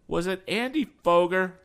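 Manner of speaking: high, loud, eager question; excited question. A narrator's reading. Tom checking the name with Mister Berg, excited question. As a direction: jump in with an eager guess. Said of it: "cried Tom".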